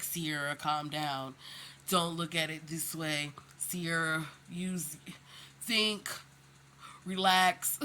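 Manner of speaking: a light hint of a calm, soothing dad; therapist voice. Dad talking his daughter down in a lightly calm therapist voice. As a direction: gently talk her down. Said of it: "he puts on his, like, therapist voice".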